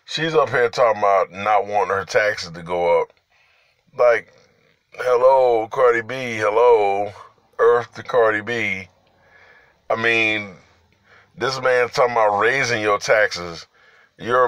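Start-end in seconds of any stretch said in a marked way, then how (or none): 4.0-8.9 mocking hello. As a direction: call her out sarcastically. Calling out mockingly.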